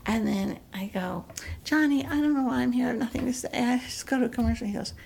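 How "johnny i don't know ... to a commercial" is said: hint of an actress impression; quick patter falling to near-whisper; lightly flustered talk-show guest; Terry Garr. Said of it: "Terry Garr".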